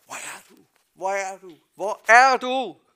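from a faint call up to a loud, slow, high shout; calling out, building. Acted. Shepherd searching for his lost sheep: calling out, building to a shout. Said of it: "og så råber han".

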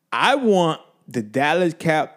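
slow, words stuck in the throat; can't finish the sentence; words stick. Real, not acted. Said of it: "I can't even talk".

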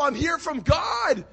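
loud, slow proclamation with the Bible held up; proclaiming loudly. Retold or imitated. Scrawny preacher proclaiming loudly to the courtroom crowd. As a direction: declare it slowly and loudly to the whole court. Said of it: "preacher waving his Bible".

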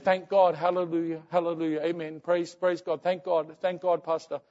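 lightly voiced devout mother; praising God. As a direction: imitate her stream of grateful praise. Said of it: "she was praising God".

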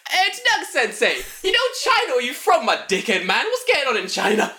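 high, loud taunting call. Retold or imitated. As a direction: holler it across the staff room. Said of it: "I'm just very loudly going".

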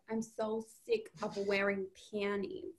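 put-on understated Brooklyn accent, quietly delivered; imitated Brooklyn accent. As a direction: quote the line in Brooklyn. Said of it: "when she's like".

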